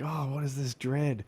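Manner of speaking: groggy dread. Retold or imitated. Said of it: "I wake up and I'm like".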